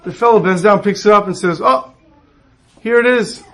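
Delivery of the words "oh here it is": high pitched "oh, here it is" with a laugh; triumphant fake discovery with a laugh; mock surprise. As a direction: act like you just found it, chuckling. Fellow finds money, gloating.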